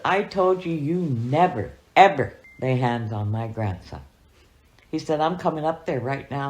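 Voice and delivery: a grandpa's mad warning, half acted; angry threat. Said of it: "he was mad".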